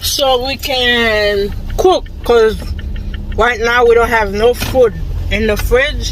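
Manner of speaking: talking while chewing gum; words round a wad of gum. Real, not acted. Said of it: "I've been talking to y'all with the gum in my mouth".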